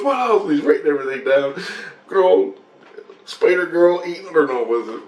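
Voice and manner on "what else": lightly voiced Grace. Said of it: "He goes".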